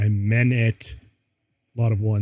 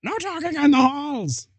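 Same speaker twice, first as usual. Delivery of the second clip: angrily. A narrator's reading. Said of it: "started shredding at us angrily".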